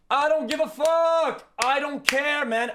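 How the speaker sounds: shouting it out, fed up; angry shout. Real, not acted. Streamer shouting at chat in real anger. Streamer ranting against pronoun changes.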